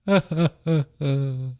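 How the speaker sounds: high fake boo-hoo sobs; hammed-up weeping, trailing from the wail; mock sobbing. Acting grieving Tim's sobs.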